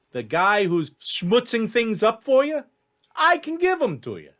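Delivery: high, swooping voice of an elf fixer; animated elf hustler bargaining; wheedling elf schemer. Acted. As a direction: sell the deal in a high, chummy pitch. GM voices tall elf Ellis.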